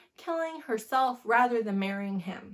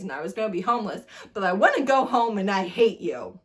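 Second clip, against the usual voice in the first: a hint of a sulky thirteen-year-old whining, partly rushed; mock tantrum at a parent, light and fast; bratty teenager; 3 dB louder than usual. Book reviewer mocks the heroine as a sulky teen. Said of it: "Like a frickin' thirteen-year-old".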